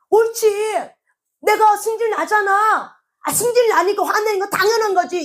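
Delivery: high-pitched mock indignation, words stretched; indignant self-justification. People defend their temper to God, indignant self-justification. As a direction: act out someone insisting they're entitled to rage.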